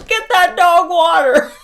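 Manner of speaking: high, loud imitation of a nagging crowd; hammed-up urgent cry; mock urging. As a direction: call it out high and loud, mocking. Mimicking everyone urging the man.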